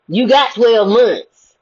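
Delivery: slow, deliberate and pointed; slow pointed emphasis. Real, not acted. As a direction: spell it out slowly. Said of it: "pointed slow emphasis".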